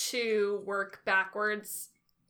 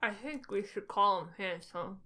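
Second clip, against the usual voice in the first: talking around a pen held in the mouth. Real, not acted. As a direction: speak with a pen between your teeth. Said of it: "I had a pen in my mouth".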